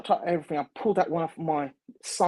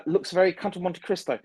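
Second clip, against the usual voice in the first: higher, lightly imitated posh American; posh American accent; 5 semitones higher than usual. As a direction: put on a slight posh American voice. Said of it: "quite a posh American, uh, accent voice".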